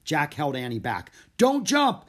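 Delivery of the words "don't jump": loud, high urgent shout. A narrator's reading. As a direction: yell to stop her jumping. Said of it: "he shouted".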